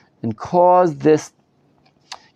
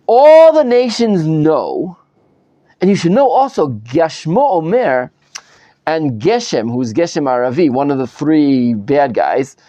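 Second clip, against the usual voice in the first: reading the letter aloud. Retold or imitated. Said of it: "this is what was written in this thing".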